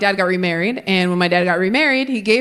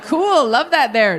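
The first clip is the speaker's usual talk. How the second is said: mock fake approval; 3 semitones higher, slower than usual. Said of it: "I'd be like".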